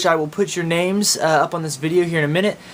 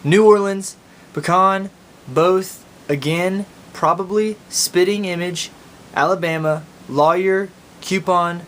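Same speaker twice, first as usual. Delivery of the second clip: reading a word list in Oklahoma accent; Okie accent; slower than usual. Shown as a demonstration. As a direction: Oklahoma drawl on each word. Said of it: "here are the words".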